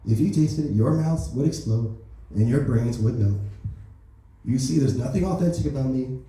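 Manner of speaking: lightly voiced Trump, smug and boastful; a hint of Trump bragging to the peasants; Donald Trump impression. President Trump brags to the public, lightly voiced Trump. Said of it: "that's the end of my Donald Trump jokes".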